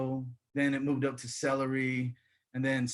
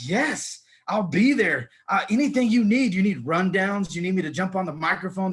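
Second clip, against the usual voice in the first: eager new hire; 4 dB louder than usual. Acted. New radio hire answering the boss's call, eager. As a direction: jump at the chance, overkeen.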